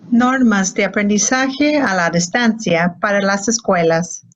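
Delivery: even, robotic voice-assistant read; Siri voice. Shown as a demonstration. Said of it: "that's my best Siri voice".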